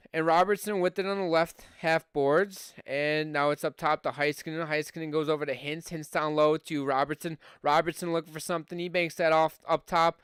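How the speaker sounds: brisk hockey play-by-play call; live play-by-play. Acted. Streamer calling the hockey game for his viewers, live play-by-play.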